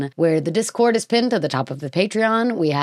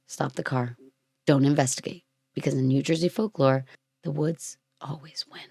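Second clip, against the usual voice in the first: dropping to an eerie whisper on the end; ominous campfire-story hush; spooky hush; 2 semitones lower, 5 dB quieter than usual. Acted. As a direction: tell it like a campfire warning, fading to a whisper. Spooky warning about Pine Barrens.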